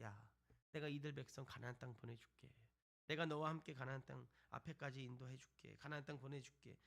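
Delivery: low, softened reassurance; retold divine promise. God promising Moses the way to Canaan, retold softly and low. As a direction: give an understated promise, voice dropped. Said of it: "하나님이 모세를 향해서 약속을 해요".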